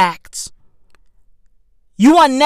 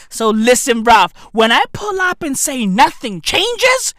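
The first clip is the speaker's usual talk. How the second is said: shout; 4 semitones higher, 4 dB louder than usual. Real, not acted. Shouting at crowd.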